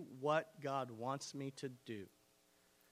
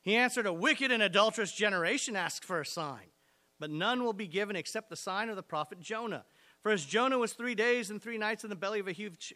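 reading the passage out loud and driving it home; forceful scripture reading; 2 semitones higher, 3 dB louder than usual. Acted. Pastor reading Matthew to the church, preaching loud. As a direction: preach the verses with rising force. Reads the Bible passage aloud.

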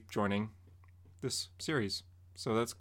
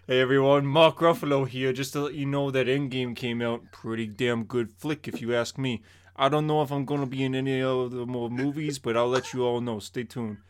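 Mark Ruffalo impression; 2 semitones lower than usual. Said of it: "Mark Ruffalo from in this impression".

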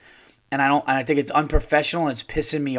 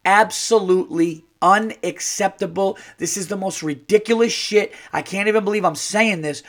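outraged; 5 semitones higher than usual. Real, not acted. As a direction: spit out disbelief. Outraged comment on shelter.

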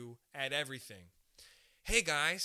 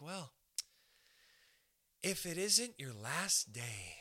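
gleeful boss; slower than usual. Retold or imitated. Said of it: "she's like".

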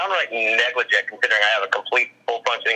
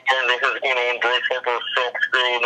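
spooky put-on witch doctor; 2 semitones higher than usual. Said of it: "that's my Zuru Witch Doctor voice".

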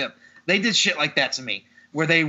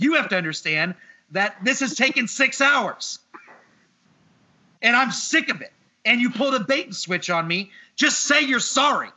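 exasperated complaint, pitch jumping up; retold exasperation; 4 semitones higher than usual. Customer demanding an apology from the mechanic, exasperated. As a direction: press the mechanic for an apology, fed up. Retelling own argument with mechanic.

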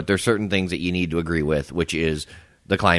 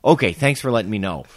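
sarcastic; 3 semitones higher than usual. Retold or imitated. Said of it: "being sarcastic".

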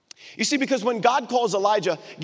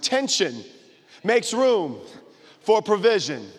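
firm, emphatic phrases with pauses between; with attitude; slower than usual. Shown as a demonstration. Preacher models the line for neighbors to repeat, with attitude. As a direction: give it some attitude, chunk by chunk. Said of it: "with some attitude".

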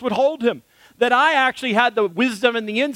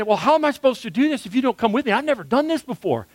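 scared pleading; 3 semitones higher, faster than usual. Retold or imitated. Scared climber pleads with guide.

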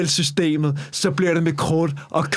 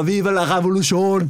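mock battle cry. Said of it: "mens du råber".

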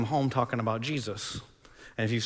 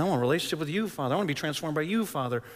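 pleading prayer, pitched up on each plea; earnest prayer; 4 semitones higher than usual. Shown as a demonstration. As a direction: call out to the Father, voice rising then dropping on the name. Models an earnest prayer to God.

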